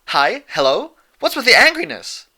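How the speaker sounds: high, loud, frantic questions; frantic pony. A narrator's reading. Pinkie frantically asking her angry friends. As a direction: flap about in alarm. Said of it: "frantically waving a foreleg in the air".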